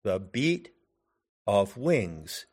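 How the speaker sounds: "The beat of wings", paused in the middle, BEAT and WINGS accented; the BEAT, of WINGS, scanned as two iambs; iambic stress. Shown as a demonstration. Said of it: "The accent is on the second syllable".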